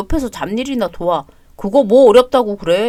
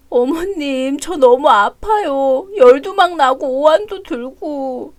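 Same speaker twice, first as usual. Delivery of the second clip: weak tearful plea; slower than usual. Acted. Sick crying daughter-in-law complains.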